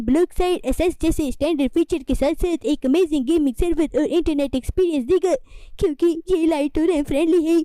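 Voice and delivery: brisk, upbeat ad voice; sponsored ad read. Acted. Presenter pitching app to viewers, upbeat ad read. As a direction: sell the VPN to viewers quickly.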